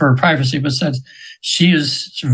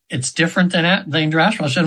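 ordinary talk, nothing marked

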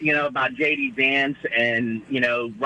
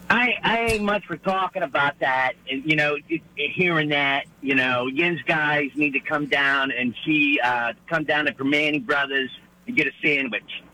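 a light hint of a Pittsburgh yinzer accent. Caller obliges the host's request for a Pittsburgh accent, lightly Pittsburgh-accented. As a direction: ease into a mild Pittsburgh accent without overdoing it. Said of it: "Yeah, that sounds about right".

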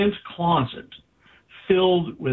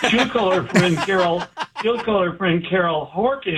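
talking through a laugh, higher; 5 semitones higher than usual. Real, not acted. Telling the host about his wife's friend, laughing. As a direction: chuckle through the words.

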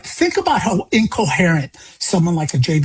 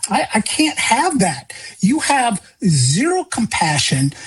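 impassioned plea; 4 semitones higher than usual. Retold or imitated. Retold message to the governor.

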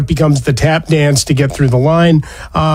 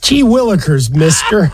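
put-on wholesome 1950s kid; 3 semitones higher than usual. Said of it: "playful echo of quaint term".

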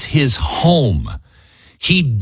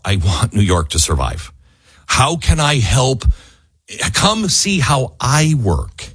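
sincere. Pretend. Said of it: "he's sincere about".

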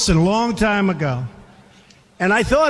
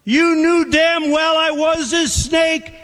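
raised, taunting retort; grinning snake; 7 semitones higher, slower than usual. Acted. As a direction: sneer it back at her, smug. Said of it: "said the reptile with a grin".

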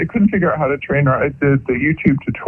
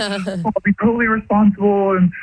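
lightly imitated teen, higher pitched; pleading teenager; 5 semitones higher than usual. Wife recalling how she talked husband into a dog, lightly voiced pleading teenager. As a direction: reel off promises like a pleading kid. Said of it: "a teenager or something, he wants a car".

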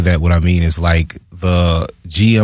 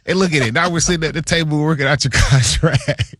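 mock GM voice; 7 semitones higher than usual. Teammate voices GM at contract talk.

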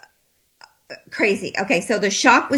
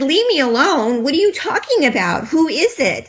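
alarmed questions; 5 semitones higher than usual. Retold or imitated. Confronting the spiritual man.

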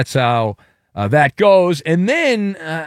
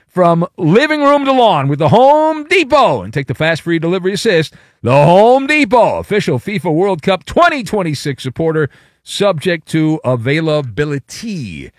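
loud then fast sponsor read; 4 dB louder than usual. Acted. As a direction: rush the fine print.

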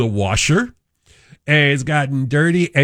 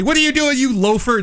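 mock scolding; 11 semitones higher, faster than usual. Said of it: "call him and say".

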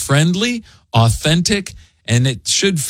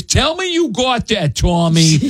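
mock Boston accent, pitched much higher; quoting a Boston sketch in a hammed-up Boston accent; 7 semitones higher than usual. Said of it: "Jimmy Fallon and Amy Poehler were hilarious".

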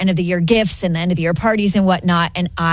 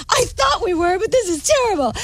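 retold dismay; 10 semitones higher than usual. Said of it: "And I'm like".

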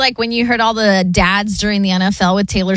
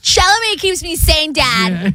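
higher, playful daughter comeback; mock daughter; 6 semitones higher, slower than usual. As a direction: answer back as the daughter, pitched up. Co-host plays the daughter answering dad.

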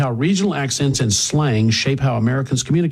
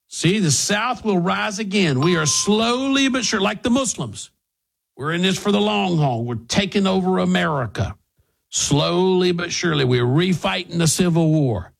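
mock Southern rallying; 5 semitones higher than usual.

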